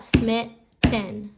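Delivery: Smitten split into two clapped beats, smit-ten; clapped syllables. Shown as a demonstration. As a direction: clap out Smitten beat by beat. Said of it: "I would clap it out".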